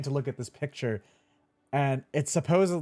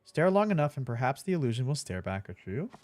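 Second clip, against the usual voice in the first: mock ad read. Reads the box blurb aloud.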